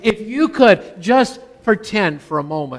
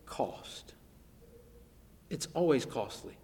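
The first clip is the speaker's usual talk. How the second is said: dramatic whisper; 5 semitones lower, 17 dB quieter than usual. Acted. Whispered key word in sermon.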